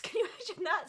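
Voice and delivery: laughing loudly while asking. Real, not acted. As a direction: laugh through the question. Laughing at pet slugs idea.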